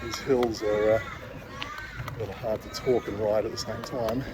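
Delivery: panting, slowed by the climb; gasping words out while pedalling; out of breath. Real, not acted. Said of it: "yes, I am panting".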